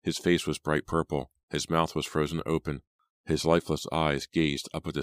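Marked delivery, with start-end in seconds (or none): none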